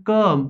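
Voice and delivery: teacher sounding out कम as "kum"; pronunciation demo. Shown as a demonstration. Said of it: "माझं pronunciation कसं निघतंय".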